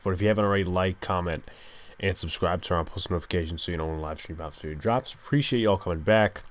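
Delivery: ordinary delivery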